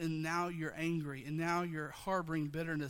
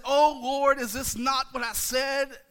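Jonah's complaint; 6 semitones higher, 10 dB louder, slower than usual. Retold or imitated. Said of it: "He says".

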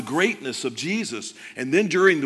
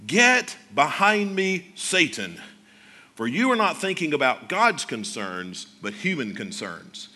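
stern rebuke; 3 semitones lower than usual. Retold or imitated. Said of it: "listen to how Jesus said it".

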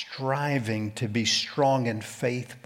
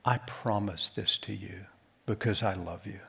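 sincere promise; 3 semitones lower, 5 dB quieter than usual. Acted. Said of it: "in all sincerity said".

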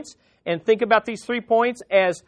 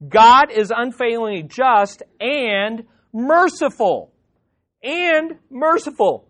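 excited; 3 semitones higher than usual. Real, not acted. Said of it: "I got excited about this".

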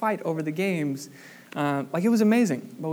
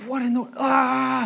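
startled yelp; 9 semitones higher than usual. Retold or imitated. Sudden bite on the back.

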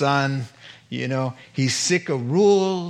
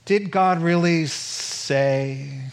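serpent; much slower than usual. Retold or imitated. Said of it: "You remember how it goes".

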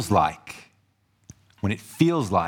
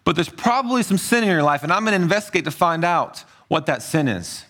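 lightly acted accuser, higher-pitched; a hint of a self-righteous accuser, pitched up; accusing heckler; 5 semitones higher than usual. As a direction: play a suspicious fault-finder. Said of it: "Maybe they're even saying".

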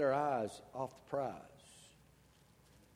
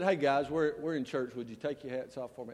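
gentle request; 3 semitones lower than usual. Retold or imitated. Pastor gently asking teenage boys to take hats off. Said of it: "That's how I said it".

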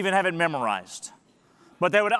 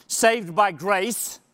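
slow, weighty phrase; slow emphasis; much slower than usual. Shown as a demonstration. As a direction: press each word down. Summing up the verses.

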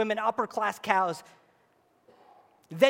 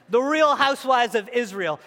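louder repeat; 4 dB louder than usual. Real, not acted. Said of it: "joke repeated".

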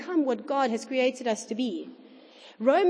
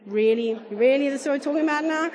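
incredulous, the second really louder, the rest rushed very fast; mock unimpressed congregation; 3 dB louder, faster than usual. Preacher voicing the congregation's doubtful stares, mock incredulous. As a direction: play a bored listener, sceptical. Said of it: "Dead stares".

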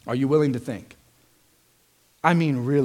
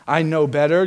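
louder, self-assured sneer; smug know-it-all; 6 dB louder than usual. Shown as a demonstration. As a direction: say it like you already know better. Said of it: "You can ask it arrogantly".

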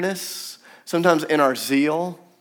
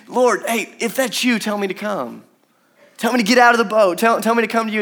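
eager plea; 5 semitones higher than usual. Acted. Peter's eager pleading.

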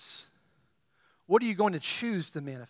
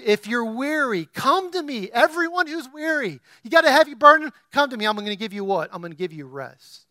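pleading, higher preacher voice; Jesus' invitation; 4 semitones higher, 4 dB louder than usual. Acted. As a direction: reach out to the weary. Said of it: "Jesus says this".

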